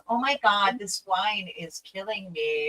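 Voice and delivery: put-on light, slow girly whine; hammy whiny girl complaining about wine. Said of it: "do the girl voice".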